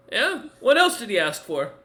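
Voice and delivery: high, loud glaring retort. Acted. Game master voices Bargis challenging the linguist, glaring. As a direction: demand an answer with a glare in the voice. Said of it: "gives a glare and goes".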